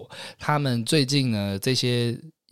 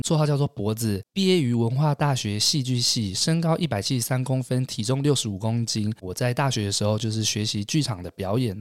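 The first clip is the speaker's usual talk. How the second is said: audition self-introduction. Shown as a demonstration. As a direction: present yourself to the director. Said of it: "那我示范一次". (试镜时的正式自我介绍)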